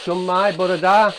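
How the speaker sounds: loud, high and slow greeting; slow, loud calling; slow called Welsh. Real, not acted. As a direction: draw out each Welsh word so a spirit can catch it. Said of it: "say Shun Mai as well".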